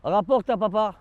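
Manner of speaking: high sing-song call to the dog. Real, not acted. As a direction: coax the dog to bring it back. Calling the dog to fetch.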